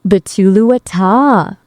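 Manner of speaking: slow, badly faked Indian accent; caricature Indian accent. AI copies the user, caricatured Indian accent. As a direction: attempt an Indian accent slowly. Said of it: "that's definitely a caricature".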